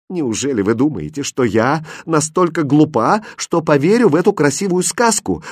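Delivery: scornful, rising sneer; sarcastic disbelief; mocking question. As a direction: scoff at his story. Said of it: "насмешливо спросила королевна".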